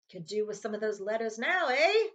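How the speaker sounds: a touch of mocking cheer, rising eh; cheerful Uncle Vernon. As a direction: tease them smugly. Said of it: "he said cheerfully".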